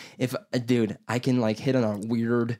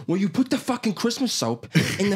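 exasperated retort; 10 semitones higher, faster than usual. Retold or imitated. Retelling his exasperated retort to mom.

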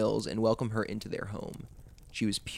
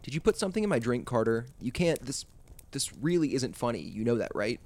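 fast, rising panic; rushed, frightened pleading; panicked. Acted. Babysitter panicking, poisoned.

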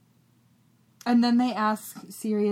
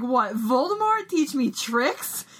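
scornful Sirius; 4 semitones higher, slower than usual. Retold or imitated. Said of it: "Sirius laughs and he's like".

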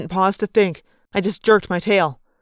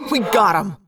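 excited cheer; 3 dB louder than usual. Acted. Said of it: "Arbonne cried".

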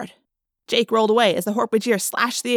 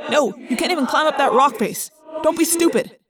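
higher, urgent scolding; exasperated, raised-pitch objection; sharp rebuke; 5 semitones higher than usual. A narrator's reading. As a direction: shoot down a reckless idea. Arguing against a reckless charge.

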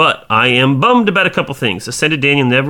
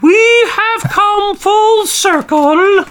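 booming voice; much slower than usual. Pretend. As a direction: boom it out like a grand announcement. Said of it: "read in a booming voice".

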